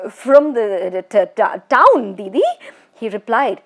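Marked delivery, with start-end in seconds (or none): 0.1-2.4 stammering through chattering teeth; terrified, stumbling over the words. Acted. Bishan Singh answering the ghost, stammering in fear. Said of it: "trying to keep his teeth from chattering".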